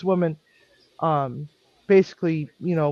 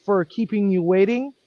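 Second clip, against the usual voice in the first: raised, pointed apology so others overhear; rather loudly; 4 semitones higher than usual. Retold or imitated. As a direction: make sure the couple hears every word. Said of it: "I said rather loudly".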